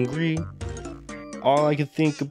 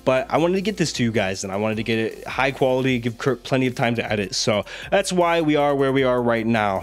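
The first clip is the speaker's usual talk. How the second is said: hoarse, sick voice; rough voice from being ill; voice giving out. Real, not acted. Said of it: "I know I sound goofy right now".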